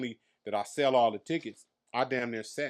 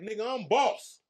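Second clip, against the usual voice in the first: much higher, louder boast; mock boastful; 11 semitones higher, 6 dB louder, slower than usual. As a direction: crow it like a playful brag. Retelling his own line.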